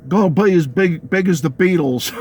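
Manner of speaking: rough attempt at Cockney accent; imitating a singer. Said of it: "said in his Cockney accent".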